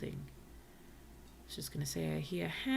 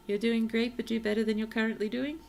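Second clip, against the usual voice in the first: loud, higher mock cheering with a faster jab at the end; playful heckling; 5 semitones higher, 7 dB louder than usual. Real, not acted. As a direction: cheer them on while teasing. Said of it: "or am I heckling".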